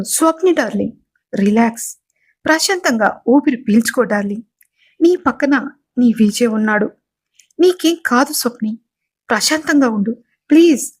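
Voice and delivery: calm her down lovingly; mild tender comfort for his wife; gentle coaxing. Acted. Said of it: "అని బుజ్జగిస్తాడు".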